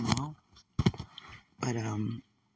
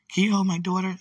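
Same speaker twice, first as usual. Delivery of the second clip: stranger asking; 5 semitones higher, 5 dB louder than usual. Retold or imitated. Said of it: "for example".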